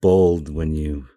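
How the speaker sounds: dry sarcasm, leaning on REALLY; deadpan sarcastic praise. Real, not acted. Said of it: "I'm being sarcastic".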